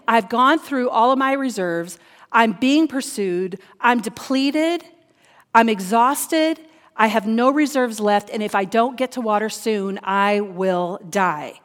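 emphatic, slowing declaration of exhaustion; preached cry of someone spent; desperate plea. Acted. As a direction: press each phrase, slowing to the last words. Psalmist's desperate cry, acted by preacher.

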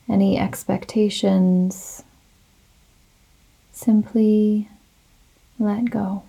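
slow, calm yoga nidra guidance with long pauses; guided meditation. Real, not acted. Leads a guided relaxation meditation.

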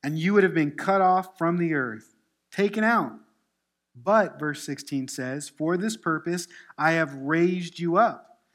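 loud, forceful pulpit reading; scripture reading. Acted. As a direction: proclaim God's command, leaning hard on key phrases. Reads scripture to congregation.

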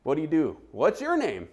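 high, loud polite questions; polite small talk. Retold or imitated. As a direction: imitate making friendly small talk. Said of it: "Like, just polite".

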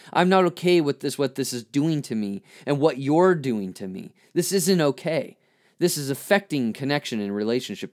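voice of anger. Shown as a demonstration. Voicing anger's message to someone hurtful, insistent protest. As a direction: push back harder, this time with force. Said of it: "this voice that says".

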